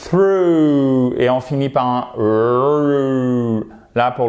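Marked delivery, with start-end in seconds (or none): 0.0-1.1 through said THROO, soft TH, louder; soft TH demo. Shown as a demonstration. Teacher modelling through after explaining TH. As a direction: open with a soft TH. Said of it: "par un petit T H, mais qui est soft".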